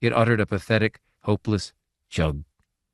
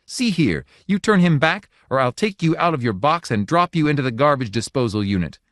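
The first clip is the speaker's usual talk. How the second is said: high, louder scornful fury; wrathful insult; 7 semitones higher, 4 dB louder than usual. A narrator's reading. Wife raging at the little god, higher and wrathful. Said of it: "shaking with wrath".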